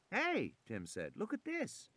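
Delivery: put-on high excited boy's voice. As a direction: call out the discovery eagerly. Tim calls excitedly.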